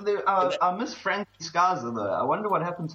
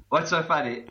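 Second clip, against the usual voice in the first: breaking character giggling. Real, not acted. Host breaking into laughter.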